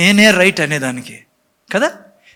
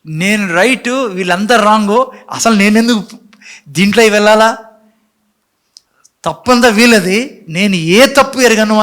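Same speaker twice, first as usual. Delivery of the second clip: imitating self-righteous ego; 3 semitones higher, 4 dB louder than usual. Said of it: "ఈగోలో నడిచే వ్యక్తి".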